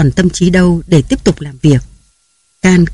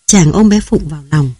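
ordinary delivery

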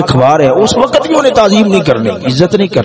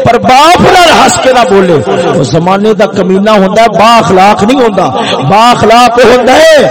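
raised, emphatic sermon voice; forceful preaching; 4 semitones higher than usual. Acted. Preacher urging sons to answer fathers kindly, forceful preaching. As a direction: press the exhortation home.

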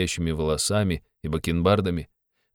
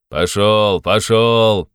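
louder, gruff order; policeman dispersing crowd; 2 semitones higher, 6 dB louder, much slower than usual. A narrator's reading. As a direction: drive the crowd off with a barked order. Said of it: "разгонял он теснившихся кругом людей". (громкий окрик)

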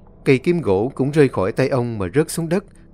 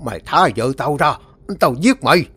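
shout; 3 dB louder than usual. Acted. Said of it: "mà quát lớn".

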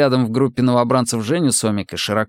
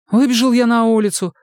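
rattling off; 12 semitones higher, 3 dB louder than usual. A narrator's reading. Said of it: "послушно затараторил Сомик".

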